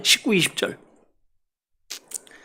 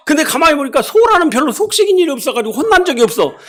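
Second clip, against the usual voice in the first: usual speaking voice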